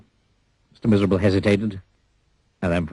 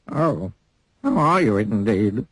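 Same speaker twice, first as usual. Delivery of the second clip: sniffy; slower than usual. Acted. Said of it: "sniffed the person".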